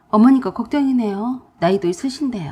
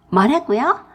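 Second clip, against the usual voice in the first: louder, higher "뭐라고요" with sharp rise; indignant retort; 3 semitones higher, 4 dB louder, slower than usual. Acted. Sister-in-law retorts "뭐라고요" indignantly. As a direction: fire "뭐라고요" back indignantly. Angry phone quarrel.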